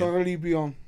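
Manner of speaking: mock southern Caribbean, car-uh-bee-AWN; southern accent. Teasing a friend's pronunciation, mock southern accent. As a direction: imitate a southern accent stretching the end of Caribbean. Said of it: "say it with a southern accent".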